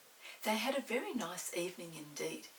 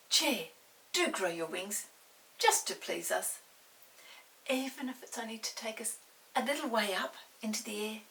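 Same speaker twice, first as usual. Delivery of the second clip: put-on louder, coaxing child's voice; Molly coaxing the magic chair, louder pleading; pleading girl; 3 semitones higher, 5 dB louder than usual. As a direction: coax the chair sweetly.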